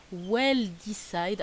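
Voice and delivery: Well Decide, said slowly with a thick French accent; self-mocking English accent. Real, not acted. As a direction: sound out the English name, slow and unsure. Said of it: "mon accent anglais est à couper au couteau". (nom anglais lu lentement avec un fort accent français)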